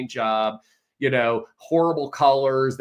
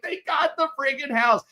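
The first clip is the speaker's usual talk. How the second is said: much higher, thrilled announcement; triumphant news; 14 semitones higher than usual. Retold or imitated. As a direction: deliver the good news in triumph. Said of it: "I'm like".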